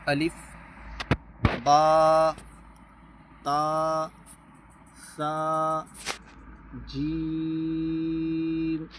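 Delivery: each letter called out, با said loud; slow teacher drill, جیم drawn out; read-along letter drill. Shown as a demonstration. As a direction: recite the letters clearly for students to repeat. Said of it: "آئیے پڑھتے ہیں".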